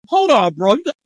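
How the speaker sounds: high, excited begging to repeat; delighted insistence. Retold or imitated. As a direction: beg him to say it again. Reacting to English accent.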